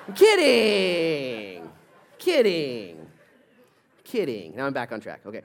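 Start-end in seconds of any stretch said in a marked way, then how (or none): 0.1-3.1 laughing. Real, not acted. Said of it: "No, I'm just kidding".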